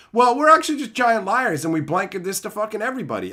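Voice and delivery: high, mock-sweet marketer voice. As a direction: parody a middleman circling back. Mocking marketer confession.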